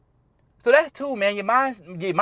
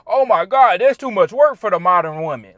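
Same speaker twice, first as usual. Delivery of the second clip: whiny complaint; 7 dB louder than usual. Retold or imitated. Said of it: "bitching and complaining".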